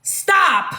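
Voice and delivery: firm demo, pitch jumping on stop; big girl voice. Shown as a demonstration. Coaching women to refuse touching, big girl voice. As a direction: demonstrate a forceful refusal. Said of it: "use your big girl voice".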